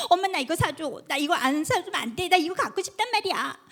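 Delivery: light mock whine of a child begging for a toy; whining child. Child begging mom for a toy, mildly mock whining. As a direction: play the pestering kid, lightly. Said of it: "막 이렇게 때를 쓰고".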